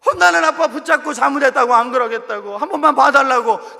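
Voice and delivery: cling and beg for mercy; pleading plea. Retold or imitated. Child clinging and begging. (매달려 애원하듯 크게)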